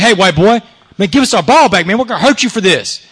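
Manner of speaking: pushed-up mock threat from angry players; retold angry threat. Angry players demand their ball back from the white boy, threatening.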